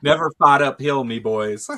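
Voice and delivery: put-on the worst Irish accent you can manage; bad Irish accent. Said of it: "the worst Irish accent you've ever heard".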